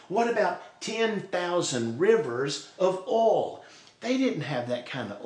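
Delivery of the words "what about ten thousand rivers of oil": slow, stretched absurd offer; mock bargaining, lightly sarcastic. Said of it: "it even gets more absurd".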